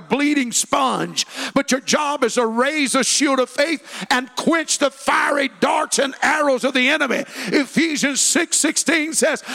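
loud, high preaching build; fiery sermon at full voice. Acted. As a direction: drive it home to the church. Pastor preaching.

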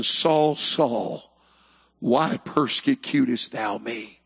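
low, solemn voice of God; the Lord from heaven. Acted. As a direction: speak low and slowly as God calling. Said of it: "the Lord spoke out of heaven".

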